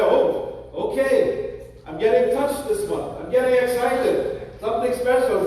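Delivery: eager, lifted voice as if thrilled by the attention; excited. Acted. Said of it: "get it excited".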